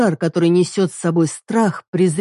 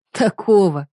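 tired snort; 3 semitones higher, slower than usual. Acted. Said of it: "фыркаю устало".

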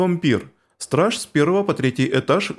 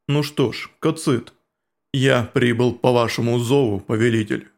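stern insect warrior; 4 semitones lower than usual. Acted. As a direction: rebuke them low and heavy. Cocytus answering, low.

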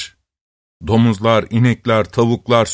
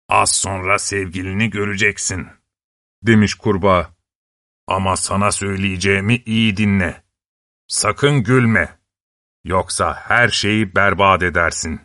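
frog voice; 5 semitones lower than usual. Acted.

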